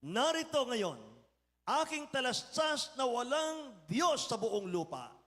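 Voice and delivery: slow, solemn declaration as the healed general; a lightly voiced general, drawn out; proclaiming general. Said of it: "at siya'y nagsabi". (mabagal at taimtim na pahayag ng heneral)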